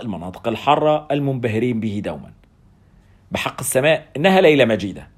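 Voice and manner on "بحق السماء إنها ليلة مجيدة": a lightly raised, booming exclamation; hearty mild boom. Acted. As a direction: proclaim it across the ward. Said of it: "دوى صوت العالي".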